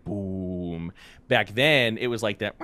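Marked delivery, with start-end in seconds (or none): 0.0-0.9 imitated low boom. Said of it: "it's a lot of low tones".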